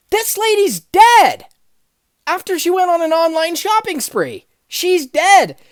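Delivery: retold frantic phone call; alarmed outburst. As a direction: blurt it out in horror to the boss. Panicked call to boss.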